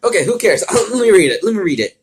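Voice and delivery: loud, high and laughing, eager to start; excited outburst. Real, not acted. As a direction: burst out giddy and loud. Excited outburst before reading.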